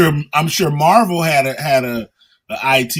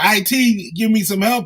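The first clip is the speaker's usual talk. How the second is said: mock yell, pitched higher; 6 semitones higher than usual. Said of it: "you could have been yelling for somebody".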